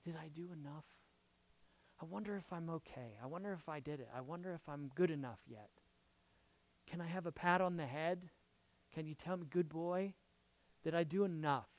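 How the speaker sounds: hushed, small self-doubting voice; soft, timid pleading under the breath; anxious inner thoughts. Acted. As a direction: worry to yourself, very softly. Voicing a burdened believer's anxious thoughts.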